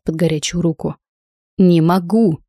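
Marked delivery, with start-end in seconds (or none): 1.6-2.4 a touch of a shout, in one breath. Acted. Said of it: "на одном выдохе выкрикнул он".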